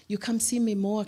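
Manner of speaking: a hint of an Asian accent, insisting; imitating Asian accent. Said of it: "She's Asian".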